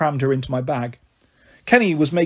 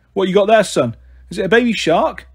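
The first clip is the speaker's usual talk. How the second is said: lightly voiced jokey taxi driver, louder; a hint of a cheeky cabbie teasing the kid; 3 semitones higher, 3 dB louder than usual.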